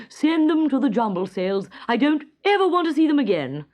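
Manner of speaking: a king ordering the socks away; firm order. A narrator's reading. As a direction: give the order decisively. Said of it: "he ordered".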